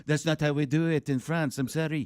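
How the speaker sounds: put-on French accent. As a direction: apologize in cartoon French. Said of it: "you sound like the skunk".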